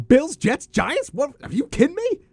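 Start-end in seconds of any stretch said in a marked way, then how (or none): 1.1-2.2 much higher, rising incredulity; can you believe this; amazed disbelief. Real, not acted. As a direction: ask it in total astonishment. Amazed at New York football.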